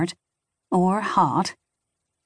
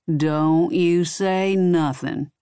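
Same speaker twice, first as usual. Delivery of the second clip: warning; much slower than usual. Acted. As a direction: drag each word out as a threat. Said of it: "Junior warned".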